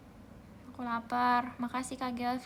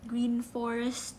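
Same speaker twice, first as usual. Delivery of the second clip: normal talking voice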